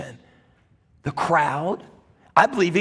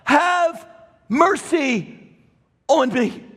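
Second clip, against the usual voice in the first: crying out; 4 semitones higher, much slower than usual. Acted. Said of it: "He's crying out".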